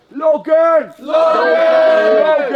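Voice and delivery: loud call across the room. Real, not acted. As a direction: shout the dog's name. Calling the dog loudly.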